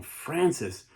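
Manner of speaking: pleading call from below; prisoners yelling. Retold or imitated. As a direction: shout up to Francis anxiously. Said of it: "prisoners yelling".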